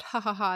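imitated spoken "ha ha ha"; mock laugh. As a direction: fake his laugh, syllable by syllable. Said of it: "had the audacity to laugh at me".

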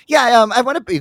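lightly voiced giddy brother at the drive-thru; giddy brother ordering. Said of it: "He's like".

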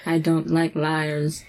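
measured elder, each word apart; staccato. Retold or imitated. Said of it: "one word at a time".

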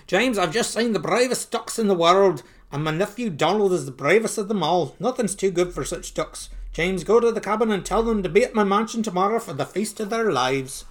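lightly voiced grand proclamation; Uncle Scrooge, proud.

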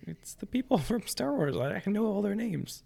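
high, eager fan voice with a laugh; excited Star Wars fan. Retold or imitated. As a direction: gush like a fan reciting every name. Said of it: "And it's like".

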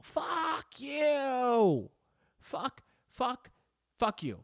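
hammed-up outburst at a robot voice; angry retort. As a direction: snarl back at the machine, half joking. Snapping back at the voicemail prompt.

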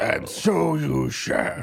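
slow theatrical decree; grand slow proclamation. Acted. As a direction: declaim it like a king. Mock grand declaration.

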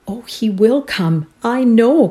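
joyful cry. A narrator's reading. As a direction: burst out with glad relief. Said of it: "cried Prissy joyfully".

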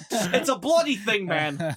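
a hint of a stern professor; Jordan Peterson impression. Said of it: "This Jordan Peterson impression".

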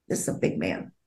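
dropped low, almost whispered; hushed aside. Real, not acted. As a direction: lean in and murmur it. Aside about the crying man.

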